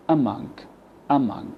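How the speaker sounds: "Among" with a weak uh first vowel; schwa in among. Shown as a demonstration. Teacher corrects the wrong form, "Among" with schwa. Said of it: "we replaced the A with a schwa".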